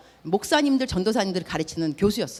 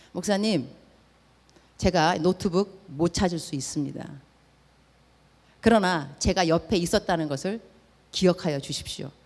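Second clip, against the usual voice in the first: soft, lower sincere promise; sincere farewell; 4 semitones lower, 4 dB quieter than usual. Retold or imitated. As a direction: say it from the heart, gently. Young man's heartfelt farewell words. (떠나며 목사님께 진심을 전하는 청년의 조용한 목소리)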